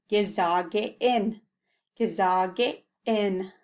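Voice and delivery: Gesage in said slowly with a clear glottal catch; slow careful model. Shown as a demonstration. Teacher modelling the glottal for the learners, slowly. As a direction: lean on the little glottal in Gesage in. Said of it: "Notice that little glottal".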